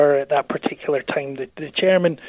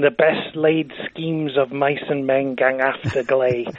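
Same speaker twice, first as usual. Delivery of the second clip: recited Burns line. Retold or imitated. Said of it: "has this line".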